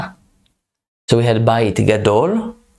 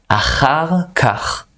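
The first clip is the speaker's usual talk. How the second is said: Achar kach said higher and slowly; higher slow model; 4 semitones higher, slower than usual. Shown as a demonstration. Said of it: "hard word to pronounce".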